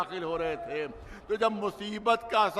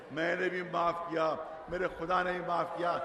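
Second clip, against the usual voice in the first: softer, reverent restatement; gentle, softer echo of the Imam's words; soft repeat; 5 dB quieter than usual. Shown as a demonstration. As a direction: let the line sink in quietly. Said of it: "repeated for emphasis".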